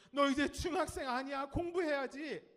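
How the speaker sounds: high, loud mock scolding; nagging parent. Parent telling a high-schooler to study, mock nagging. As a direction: push the child like a pestering parent. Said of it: "그럼 또 반복이 돼요".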